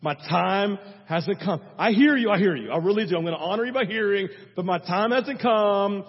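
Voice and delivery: firm, lightly acted son holding mom off; exasperated son. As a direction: imitate a mildly exasperated son reasoning with mom. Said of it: "is there a moment Jesus is like".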